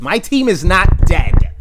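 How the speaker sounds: loud, with stress on team; loud protest. Real, not acted. Defending his team, first time.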